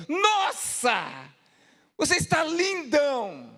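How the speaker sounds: lightly voiced saleswoman gushing over the pants; shop attendant. Attendant praises the pastor's new pants, mock gushing.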